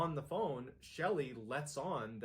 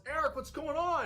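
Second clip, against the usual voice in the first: high, loud call from upstairs; yelling; 9 dB louder than usual. Retold or imitated. Wife calls down to her husband from upstairs, loud high yell. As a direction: shout the question down the stairs, alarmed. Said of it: "and she yells".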